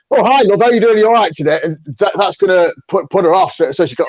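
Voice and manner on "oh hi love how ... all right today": higher, louder, bluff greeting; too loud and hearty. Shown as a demonstration. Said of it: "and I go".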